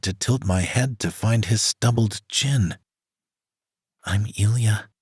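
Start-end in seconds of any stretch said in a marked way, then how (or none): 4.0-4.9 put-on Spanish accent. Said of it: "My fake Spanish accent".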